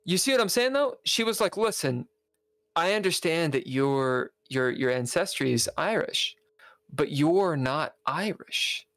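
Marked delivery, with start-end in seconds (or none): 1.6-8.9 slow, measured polite correction; softened polite retelling. Retold or imitated. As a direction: retell her rebuff slowly, politely toned down. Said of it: "She was not that polite".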